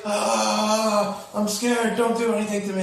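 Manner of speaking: high, timid little creature voice; voicing the scared possum. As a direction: squeak it like a frightened possum begging. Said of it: "It's like".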